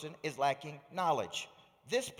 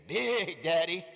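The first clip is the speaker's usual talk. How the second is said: eager little daughter; 5 dB louder, slower than usual. Retold or imitated. Seven-year-old daughter answering her dad's send-off, eager. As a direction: imitate an excited small child, pitched up.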